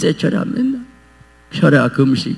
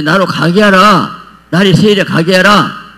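voicing Jesus; 7 semitones higher, 4 dB louder than usual. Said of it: "예수님 빼시더라고".

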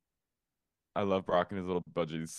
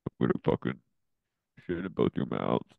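harsh barking commands; 2 semitones lower than usual. Retold or imitated. Penny threatens the girls.

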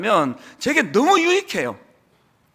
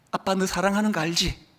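softer tender father's reassurance; 2 semitones lower, 4 dB quieter than usual. Retold or imitated. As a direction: quietly remind her she is loved. Father's tender words to daughter.

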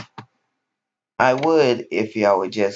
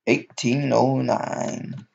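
deadpan meme voice; 6 semitones higher, slower than usual. Pretend. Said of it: "my monotone voice".

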